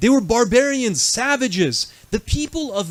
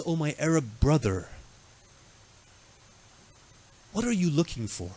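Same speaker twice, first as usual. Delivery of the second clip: kind gentle address; 4 semitones lower, 5 dB quieter than usual. Acted. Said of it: "he speaks to him with akhlaq".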